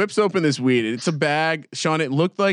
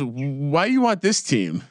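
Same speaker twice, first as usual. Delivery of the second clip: slow, badly faked Spanish accent; slower than usual. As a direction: imitate a puzzled shopkeeper with a clumsy Spanish accent. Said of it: "that was probably a bad Spanish accent".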